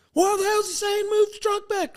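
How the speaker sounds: very high, garbled Louisiana holler; attempted Louisiana accent. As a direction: badly imitate a baffled Louisiana redneck. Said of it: "I can't do the Louisiana accent".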